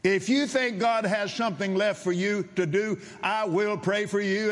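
high, ringing promise; roaring preacher. Retold or imitated. Preacher agrees to pray on his condition, roaring. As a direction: declare it firmly, pitched high. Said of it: "he was not speaking softly".

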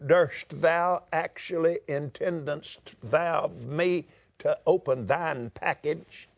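lightly hammed-up old English piety; a touch of pompous thee-and-thou praying; mock King James prayer. Preacher mocking a stilted prayer, lightly hammed-up. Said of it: "what that sounds like to God in a Texas accent".

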